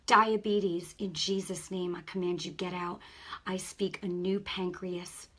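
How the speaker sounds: commanding deliverance prayer; laying a curse. Acted. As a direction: rebuke the sickness with authority. Continues healing prayer.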